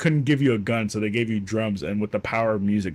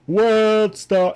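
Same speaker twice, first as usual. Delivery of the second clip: "World Star" yelled much higher and louder; triumphant yell; 12 semitones higher, 6 dB louder than usual. Retold or imitated. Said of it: "And I'd be like".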